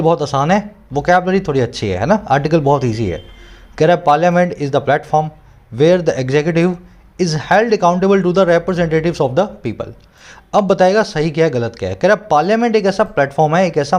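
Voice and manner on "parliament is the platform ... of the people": slow, careful dictation-style reading; slow reading aloud. Shown as a demonstration. Teacher reading the editorial line to students, slow and deliberate. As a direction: read each phrase slowly for students to follow.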